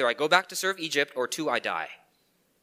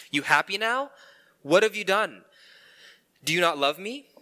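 higher, louder hurt accusations at God; bitter questions; 4 semitones higher, 3 dB louder than usual. Retold or imitated. Preacher confessing his own bitter questions to God, hurt. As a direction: press God with wounded sarcasm. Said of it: "This is the questions I ask".

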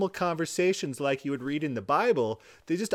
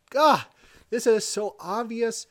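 mock shout; 6 semitones higher, 5 dB louder than usual. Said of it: "how loud do I have to scream".

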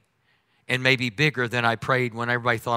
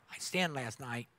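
much softer, meek little confession; timid mouse confession; 15 dB quieter than usual. Retold or imitated. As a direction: creep in like a scared mouse. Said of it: "Like a little mouse".

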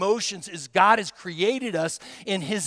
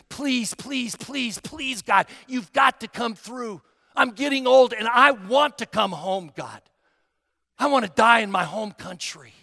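pleading prayer; 3 semitones higher, 4 dB louder than usual. Retold or imitated. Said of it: "I began pleading with God earnestly".

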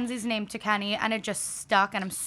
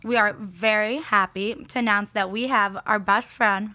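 talking with food in mouth; words round a mouthful; mouth full. Real, not acted. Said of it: "I have food in my mouth".

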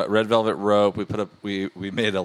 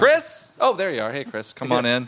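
fake surprise; 4 semitones higher than usual. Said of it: "and you're like".

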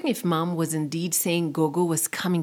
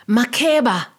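eerie calling voice; distant call; 5 semitones higher, 7 dB louder than usual. A narrator's reading. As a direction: call her name from afar. Mysterious voice calling out.

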